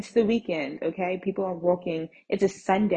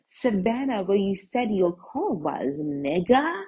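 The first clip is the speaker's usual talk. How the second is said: exasperated retort; 2 semitones higher, slower than usual. Retold or imitated. Answering seller who moved the car's location, exasperated. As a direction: stretch it out in disbelief.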